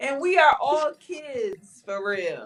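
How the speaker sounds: auntie voice, slow and stretched.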